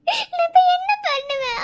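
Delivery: slow, near-crying plea; helpless, on the edge of tears; tearful despair. Acted. Desperate girl in pain. (அழுகையுடன் தவிப்பு)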